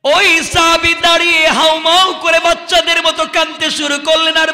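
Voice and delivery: high, ringing sermon delivery with long-held line ends; impassioned preaching. Acted. Preacher retelling the companions' rebuke to a crowd, impassioned. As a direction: project each phrase like a preacher to a crowd. Preacher narrates at full force.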